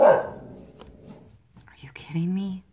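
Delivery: whispered, drawn-out disbelief; exasperated whisper. Real, not acted. Annoyed at the barking dog, slow whisper. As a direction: hiss it slowly under your breath.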